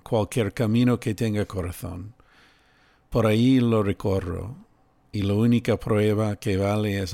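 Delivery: reading the lines aloud in a rough Spanish accent. Shown as a demonstration. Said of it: "That's my shitty Spanish accent".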